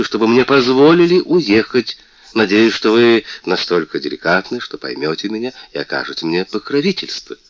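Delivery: высокий, звонкий голос обиженной принцессы; жалуйся, как оскорблённая принцесса; мультяшная принцесса. Acted. Принцесса просит короля. (принцесса жалуется королю, звонко и обиженно)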